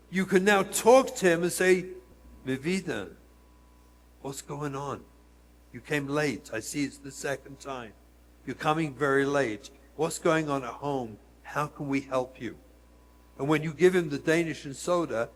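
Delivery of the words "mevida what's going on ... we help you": soft, quieter, caring questions; lowered voice of a caring principal; gentle concern. Retold or imitated. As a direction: ease the child into talking. Gently asking child about home.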